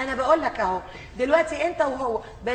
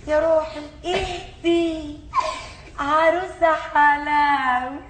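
slow soothing coo; much slower than usual. Acted. Soothing the animal.

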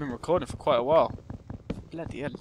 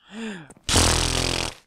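imitated dubstep wubs; 6 dB louder than usual. Imitates wubs after "watch.

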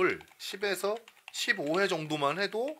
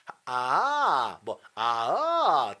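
pulled pitch; 2 semitones lower, much slower than usual. Shown as a demonstration. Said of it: "그냥 니들 맘대로 하세요".

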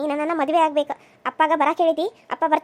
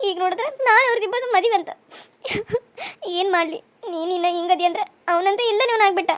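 crying. Acted. Wife crying to friend.

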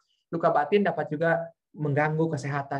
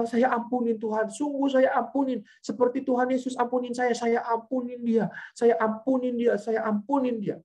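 higher voice, imitating tearful surrender; retold weeping; 4 semitones higher than usual. Aunt forgiving through tears after her outburst, imitated weeping plea. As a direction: plead it repeatedly, as if crying. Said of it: "Dia nangis, dia bilang".

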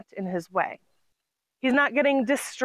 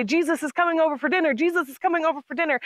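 higher, fast, hammed-up panic; mock frantic; 6 semitones higher, faster than usual. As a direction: gabble it like a flustered host. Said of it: "would get frantic".

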